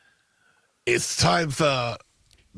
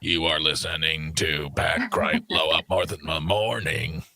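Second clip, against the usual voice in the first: radio announcer voice; 8 semitones lower than usual. Pretend. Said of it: "Throw some reverb on there".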